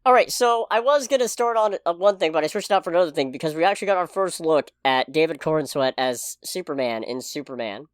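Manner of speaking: talking through a mouthful of pizza; mouth full. Real, not acted. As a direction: speak around a bite of food. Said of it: "if I sound muffled here and there".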